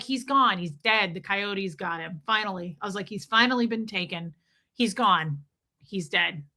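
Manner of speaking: low, matter-of-fact death announcement; detached bad news. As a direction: deliver the loss with mock finality. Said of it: "talk about delivering news like a Scientologist".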